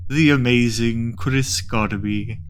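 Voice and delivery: slow, grave ceremonial tone; drawn-out mock solemn summons; solemn ritual host.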